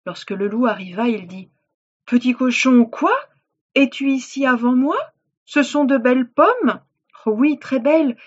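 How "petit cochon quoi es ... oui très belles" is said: loud, raised storybook voices; animated story dialogue. Acted. Wolf finds pig in apple tree, loud animated dialogue. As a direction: play the exchange big, pitched up.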